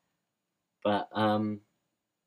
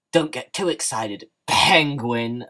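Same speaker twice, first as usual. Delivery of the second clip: mock taunt; 4 semitones higher, 9 dB louder, slower than usual. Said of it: "they say it like that".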